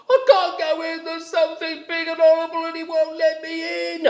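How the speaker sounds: high frightened rabbit; startled rabbit. A narrator's reading. Rabbit answers frog.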